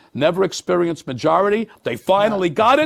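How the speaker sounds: exasperated shout over the lost majority; indignant outburst. Real, not acted. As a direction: blurt it out in disbelief, loud and high. Outraged at losing Senate majority.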